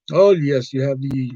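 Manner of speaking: put-on lightly caricatured Indian-accented clerk; mock Indian accent. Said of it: "generic Indian character".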